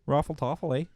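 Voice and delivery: put-on playful Canadian accent; mock Canadian. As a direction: ham up the Canadian. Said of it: "Canada, eh?".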